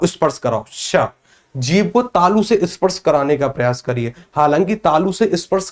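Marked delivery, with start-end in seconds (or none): 0.7-1.0 श hissed with the tongue near the palate; श held out on its own as a sound demo. Shown as a demonstration. Teacher shows students the sound, hissing श. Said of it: "उसी स्थान को स बोलने में".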